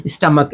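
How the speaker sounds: "स्टमक" repeated with the final ch as a clear k. Shown as a demonstration. Teacher repeating "स्टमक" for the class, the ch as k. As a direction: say "स्टमक" with a hard k at the end. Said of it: "शब्द क्या है?".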